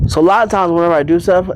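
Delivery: talking while chewing gum; words around a wad of gum. Real, not acted. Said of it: "I'm sorry for the gum chewing".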